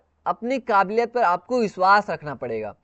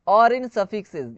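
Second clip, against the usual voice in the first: slow rule reading; much slower than usual. Shown as a demonstration. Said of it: "या फिर suffix".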